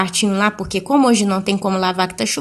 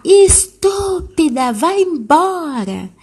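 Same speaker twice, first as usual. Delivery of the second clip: higher, slow mock child's yell; child's yell, much higher and drawn out; screaming child; 7 semitones higher, much slower than usual. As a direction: shriek it out like a furious three-year-old. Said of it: "começou a gritar".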